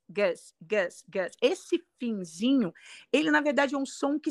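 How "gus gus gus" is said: gus com vogal reduzida e curta; som reduzido. Shown as a demonstration. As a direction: diga gus sem U forte, vogal neutra. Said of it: "esse U S de asparagus". (gus com schwa, final reduzido)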